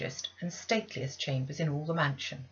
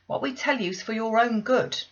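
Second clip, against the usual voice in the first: not harsh; 6 semitones higher, 6 dB louder than usual. Acted. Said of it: "in no harsh voice".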